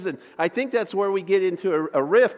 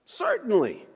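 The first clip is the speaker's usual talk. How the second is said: lightly voiced confident dad, a bit higher; confident assurance; 4 semitones higher than usual. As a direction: answer with an air of confidence, like a good instructor. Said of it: "with an air of confidence like a good instructor".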